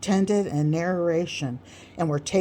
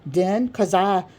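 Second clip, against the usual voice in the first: speechifying Sam; 3 semitones higher, 3 dB louder than usual. Acted. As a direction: hold the floor and hammer your point. Sam's long speech on persistence.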